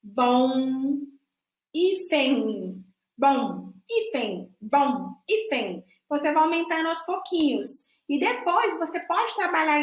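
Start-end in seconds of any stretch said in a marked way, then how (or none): 0.0-5.8 bom, hífen repeated, starting slow and getting quicker; drill speeding up. Shown as a demonstration. Teacher showing a pronunciation drill, speeding up. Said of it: "o treino comece devagar e aumenta a velocidade".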